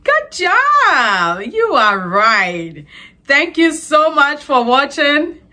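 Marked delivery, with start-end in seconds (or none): 0.0-2.8 excited praise. Real, not acted. Host cheering the child for a correct answer, excited.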